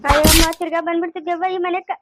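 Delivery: wailing cry of despair. Acted. Mother wailing that the ghost is back, crying.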